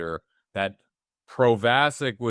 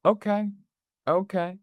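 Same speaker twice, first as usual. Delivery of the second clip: knowing okay; 10 semitones higher than usual. Retold or imitated. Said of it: "he knows he's running".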